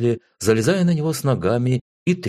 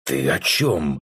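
удивлённо; 5 semitones lower, much slower than usual. A narrator's reading. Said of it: "удивился я".

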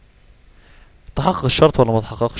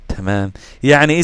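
ordinary talk

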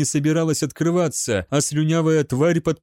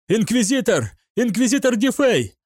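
calling out; 9 semitones higher than usual. Acted. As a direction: call for help through the door. Gaunt calls through the door. (кричит, зовя инквизитора)

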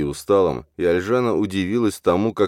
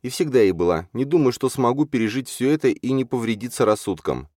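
higher, lightly voiced heroine; self-reproaching young woman; 8 semitones higher than usual. A narrator's reading. Alzhana confiding fears to Lali, self-reproaching. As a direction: confess doubts with pitch lifted.

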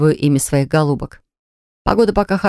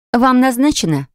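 sweet high voice; 8 semitones higher than usual. Acted. Secretary sweetly questioning visitor.

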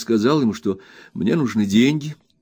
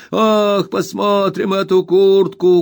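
put-on high, slow, whining old miser's wail; much higher, drawn-out spiteful whimper; spiteful whining old man; 10 semitones higher, 5 dB louder, slower than usual. A narrator's reading. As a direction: whine it out spitefully like a crazed old junk dealer. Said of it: "крикнул старик".

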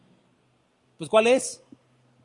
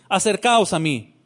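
confident. Retold or imitated. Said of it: "Con tanta seguridad".

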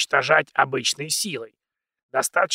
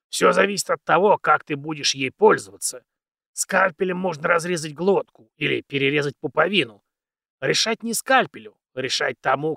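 put-on very old man; 4 dB louder than usual. Old mentor lectures.

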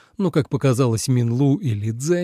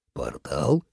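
puzzled echo; 9 semitones lower, 5 dB quieter than usual. A narrator's reading. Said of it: "переспросил".

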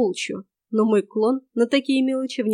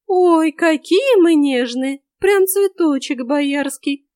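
high, loud, drawn-out teasing; mock them in a slow singsong; ringing mockery; 6 semitones higher, 6 dB louder, much slower than usual. A narrator's reading. Forest girl making fun of Ilya, ringing mockery. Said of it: "звонко рассмеялась неизвестная девка".

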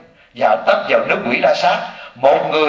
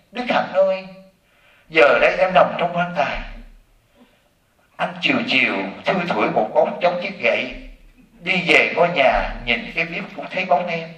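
mock mourning; 2 semitones higher than usual. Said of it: "thầy chỉ nói".

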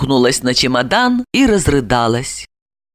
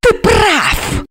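much higher, spiteful; hissed; 13 semitones higher than usual. A narrator's reading. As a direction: spit agreement back. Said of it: "прошипела она". (прошипев)

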